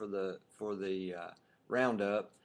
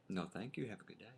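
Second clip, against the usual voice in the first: soft, courteous decline; softly imitating a polite young man; polite refusal; 3 semitones lower, 12 dB quieter, much faster than usual. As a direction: politely send them off, trailing very soft.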